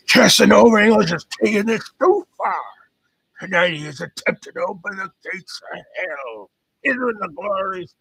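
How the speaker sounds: high, loud Texas preacher attempt; botched Texas accent. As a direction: declaim in a shaky-grasp Texas accent. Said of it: "that's not a Texas accent".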